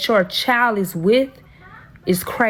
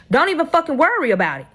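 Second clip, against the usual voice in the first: retold snap; 5 semitones higher, faster than usual. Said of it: "So I told that bitch".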